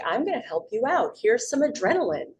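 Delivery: lightly voiced eager helper, pitch swooping up; a touch of sing-song helpfulness; helpful body talking. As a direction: play the body cheerfully offering help. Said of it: "our bodies, they're amazing, wonderful things".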